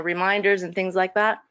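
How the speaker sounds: speaking through a burp; a burp caught mid-phrase. Real, not acted. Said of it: "Excuse me, I'm burping".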